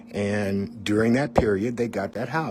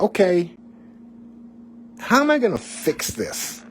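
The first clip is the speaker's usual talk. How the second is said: much higher and louder, frantic; panicked outburst; 10 semitones higher, 4 dB louder than usual. Retold or imitated. Man left alone, panicking over how to fix things. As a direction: blurt it out in rising panic. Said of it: "sitting there going like".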